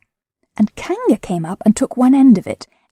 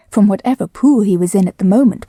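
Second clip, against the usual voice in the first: usual speaking voice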